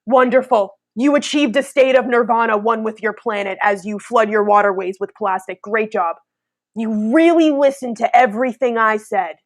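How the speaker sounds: dry mock congratulations; sarcastic praise. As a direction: praise them as if you mean the opposite. Sarcastic praise voiced as Buddha.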